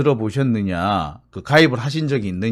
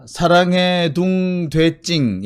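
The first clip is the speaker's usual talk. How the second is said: put-on lisping baby talk; 4 semitones higher, much slower than usual. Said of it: "혀 짧은 소리를 내면 되는 거군요".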